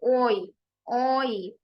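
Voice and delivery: "ओई" glided from o into ee; sound demo. Shown as a demonstration. Teacher introducing the next sound, "ओई" as one glide. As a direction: say "ओई" alone as one joined sound. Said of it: "ये वाली sound आ गई है जी".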